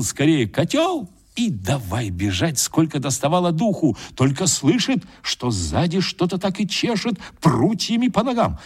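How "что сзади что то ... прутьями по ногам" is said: plain reading voice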